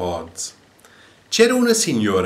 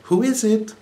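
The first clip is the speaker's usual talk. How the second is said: much higher parrot squawk; parrot crying out; 12 semitones higher, 3 dB louder than usual. A narrator's reading. Parrot answering the banging on the door, high squawk. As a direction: cry it like a parrot. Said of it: "cried out".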